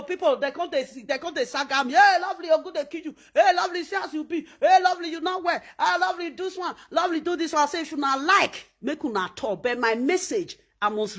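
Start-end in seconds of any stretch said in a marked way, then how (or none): 1.9-5.6 quick, higher-pitched heckling calls of "Hey, lovely"; mock jeering. People mocking Lovely in the street, imitated heckling. 5.8-7.6 higher-pitched heckle that starts with a mild shout; mock jeering. People taunting Lovely to perform, imitated heckling.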